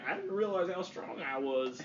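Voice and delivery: lightly voiced big guy, slow and drawn out; slow, measured quote of a big man; imitated big guy. Retelling the wheel-smashing story, a slow big-guy impression. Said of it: "That's what he sounds like".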